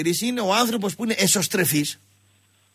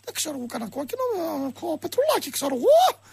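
high-pitched put-on Russian-Pontic voice; squeaky, rising Russian-Pontic impression; Russian-Pontic accent; 8 semitones higher than usual. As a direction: caricature a puzzled Russian-Pontic Greek on the line. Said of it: "απ' την άλλη γραμμή ο Ρωσοπόντιος αρχίζει".

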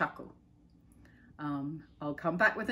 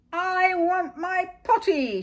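put-on high, loud, slow wail of a child; a desperate little cry for the potty; 12 semitones higher, 8 dB louder, slower than usual. A narrator's reading. Princess at castle top calling for potty, loud high wail. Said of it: "she cried".

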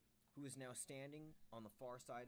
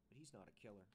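quietly; 6 dB quieter than usual. A narrator's reading. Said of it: "she said quietly".

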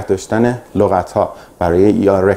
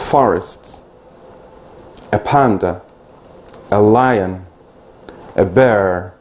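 isolated vocabulary words, evenly delivered for learners to echo; repeat-after-me drill; much slower than usual. Shown as a demonstration. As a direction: model each word carefully, pausing after it. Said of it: "کلمات رو پشت سر من سریع تکرار بکنید". (مدل تلفظ شمرده برای تکرار)

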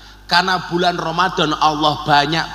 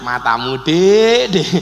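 playful, teasing address; joking; 3 semitones lower, slower than usual. Shown as a demonstration. Husband joking with his wife, playful teasing. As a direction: tease a spouse with a drawn-out Dik. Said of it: "Tapi lak guyon".

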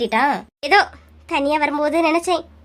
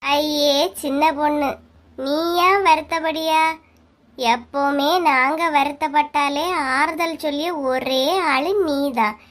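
gentle consoling; slower than usual. Acted. Consoling a crying friend.

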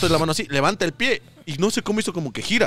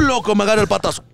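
ordinary delivery

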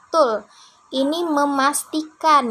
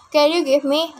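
snapped "Can you give me?" as a cross demand; a demand, not a request; mock angry asking; 3 semitones higher than usual. Shown as a demonstration. Teacher imitates a rude asker for students, mock angry. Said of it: "iramanya marah-marah".

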